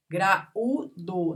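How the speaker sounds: "Graúdo" as gra-ú-do; syllable by syllable. Shown as a demonstration. Teacher showing a vowel alone, syllable by syllable. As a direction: set the ú of "Graúdo" apart with pauses. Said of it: "tá sozinho".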